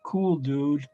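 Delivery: imitated cool turtle dude. Imitating the turtles they all had, cool dude voice. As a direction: do a loose surfer-dude turtle. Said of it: "they all had that".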